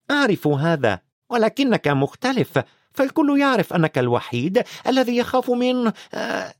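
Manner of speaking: grudging praise, stumbling on the name; half annoyed, half admiring. Acted. McGonagall praises Dumbledore grudgingly, flustered. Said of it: "نصف مستاءة ونصف معجبة".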